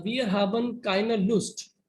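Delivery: each German word spelled out slowly; slow careful reading. Shown as a demonstration. Teacher reads the German sentence to students, slowly and carefully. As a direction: read it out slowly, word by word, for the class. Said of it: "it says".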